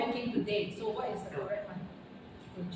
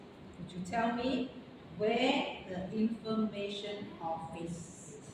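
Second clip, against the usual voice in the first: slow model sentence; 2 semitones lower, 4 dB quieter, slower than usual. Shown as a demonstration. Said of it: "slow model answer".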